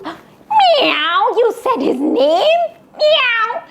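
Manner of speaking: a cat gasping that Red said the name; startled cat. Acted. Cat shocked at wolf's name.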